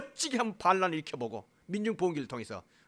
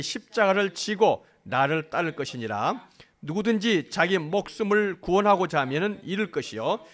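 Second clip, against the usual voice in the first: slow, measured congregational reading; scripture reading aloud; 4 dB louder, slower than usual. Real, not acted. (다 함께 성경을 천천히 또박또박 낭독)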